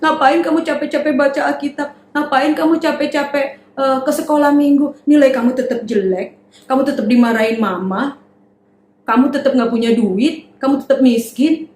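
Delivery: lightly voiced mocker discouraging a child; a hint of a discouraging mocker. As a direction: taunt the child gently. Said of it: "Kalau sekarang bilang".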